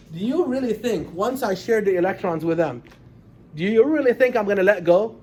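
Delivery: loud stubborn atom; atom refusing. Acted. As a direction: play the stubborn atom clinging on. Teacher voices atom refusing to let go.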